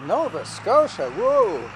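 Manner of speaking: slow, amazed echo; impressed surprise. Real, not acted. Hearing of the flight across Canada, impressed surprise. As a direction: draw out the place name, then a big whoa.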